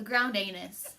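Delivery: anise with a long A, AY-niss. Real, not acted. Naming the spice for the cookie viewers, anise as AY-niss. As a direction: say anise as AY-niss, first syllable like "rain". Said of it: "That's not how you say it".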